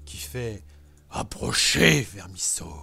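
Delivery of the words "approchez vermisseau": menacing dragon, drop low at the end. Acted. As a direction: beckon the worm with scorn. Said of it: "Vous avez la voix, euh, du dragon".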